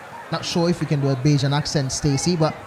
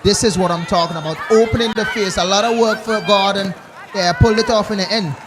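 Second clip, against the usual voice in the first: excited commentary; 4 semitones higher, 5 dB louder than usual. Real, not acted. Excited commentary on a fine shot.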